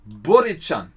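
Borican read out loud, unsure of the c; unsure sound-out. Shown as a demonstration. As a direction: try the foreign word Borican, stressed on Bo. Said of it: "Spricht man das so aus?". (Borican unsicher ausgesprochen, laut)

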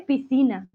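"Piscina" with one S sound, the C left silent; S only. Shown as a demonstration. Teacher answering Olga about S and C, "Piscina" with only an S. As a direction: say "Piscina" as if there were no C. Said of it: "Dice solamente la S".

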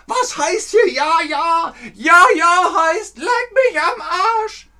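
very high, loud, slowed yell; angry shout. Retold or imitated. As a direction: scream the retort back at the master. Werner quarrel quoted from film.

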